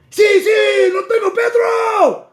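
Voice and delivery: put-on high, loud, animated Mexican accent, stretched out. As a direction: cry out in a hammed-up Mexican accent. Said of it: "that's my Mexican accent".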